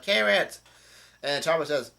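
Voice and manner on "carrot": high-pitched call, only mildly raised; mock yell. Retelling Nami calling to her friend, restrained high mock yell. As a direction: imitate someone yelling a friend's name. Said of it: "yells out".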